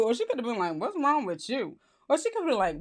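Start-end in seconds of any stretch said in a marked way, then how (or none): 0.8-1.8 concerned-sounding alternative take. Acted. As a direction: ask it gently, without the laugh. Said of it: "how she meant it".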